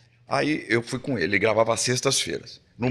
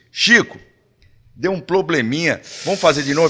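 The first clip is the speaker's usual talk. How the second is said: higher, louder call across the studio; crew member shouting; 4 semitones higher, 6 dB louder than usual. Retold or imitated. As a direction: yell the retake request to the star. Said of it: "o cara gritou assim".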